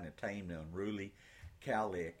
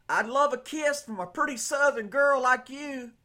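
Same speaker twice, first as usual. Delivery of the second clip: soldier calling out; 12 dB louder than usual. Acted. Soldier calls out from truck.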